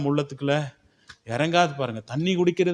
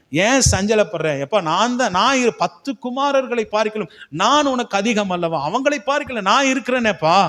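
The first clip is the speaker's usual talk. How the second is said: louder, rising pleading husband; 3 semitones higher, 4 dB louder than usual. Retold or imitated. Elkanah pleading with weeping Hannah.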